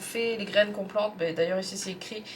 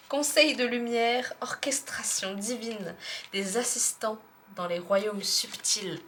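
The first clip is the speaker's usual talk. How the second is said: whispering. Acted. Reads card in hushed voice.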